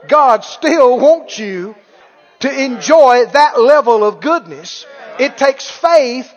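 slow, swelling sermon climax; emphatic preaching. Real, not acted. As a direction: drive home each word slowly.

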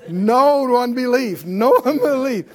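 loud, slow rebuke; hollering. Pretend. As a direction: holler it out, drawn long. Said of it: "you'll hear me hollering at you".

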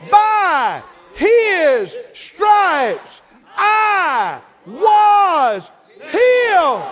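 "By his stripes I was healed" all shouted high, very slow; every word stressed. Shown as a demonstration. Preacher hitting all the words at once. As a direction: hit every single word. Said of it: "Then you hit all of 'em".

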